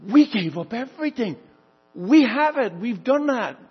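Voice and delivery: proud and eager; excited. Acted. Apostles boasting to Jesus, lightly excited. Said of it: "So you can see their excitement".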